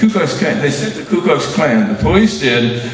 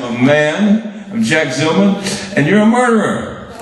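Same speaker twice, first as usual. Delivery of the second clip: defiant retort; 5 semitones higher than usual. Retold or imitated. Retold confronting commissioner in chapel.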